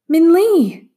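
loud, high call. A narrator's reading. Ma hears branches breaking, calling out loud. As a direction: call out for her lost daughter.

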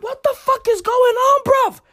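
high, shocked squeal of disbelief. Retold or imitated. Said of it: "I was out there like".

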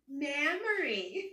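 drawn-out southern twang on a name; imitated Southern pronunciation; southern accent. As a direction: say the name with a broad Southern drawl. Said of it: "it's in her southern accent".

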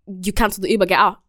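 low-key curt driver imitation; rude driver retold. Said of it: "he didn't really say it like that".

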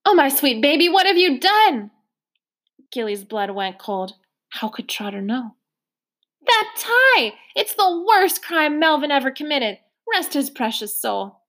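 high mock-horrified exclamation; hammed-up dismay. Trotter teasing Gilly about the gaudy tie, mock horror.

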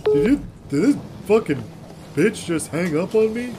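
fast, furious disbelief; outraged at being hung up on; angry. Acted. Caller furious after hang-up.

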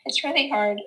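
choked up, fighting real tears; tearful, halting, with long pauses to regain control; about to cry. Real, not acted. Mom admitting to her friend how hard it is, tearful. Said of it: "Okay, I'm gonna cry".

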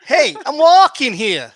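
put-on loud New York accent; brash New Yorker shout; American accent. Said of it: "one liner American accent".

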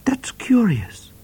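slow whispered aside; murmured. Acted. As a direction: whisper it slowly, amused. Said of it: "murmured Trooper O'Grady".

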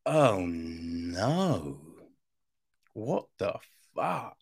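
hushed, stunned "oh no" that drops to a whisper; low, breathless disbelief; shocked disbelief. Retold or imitated. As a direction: react in quiet horror at what you just heard. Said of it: "you're just like".

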